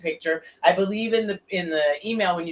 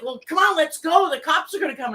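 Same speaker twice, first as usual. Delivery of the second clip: high, louder retold urging; urgent urging; 11 semitones higher, 4 dB louder than usual. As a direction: imitate someone hurrying a friend away. Bystander urges her to flee cops.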